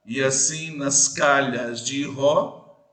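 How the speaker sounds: "calhas" slow with "ca" hit hard; stress on ca. Shown as a demonstration. Teacher to class, showing the fourth-syllable stress slowly. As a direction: draw out the verse and lean on "ca". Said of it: "percebeu o cá?".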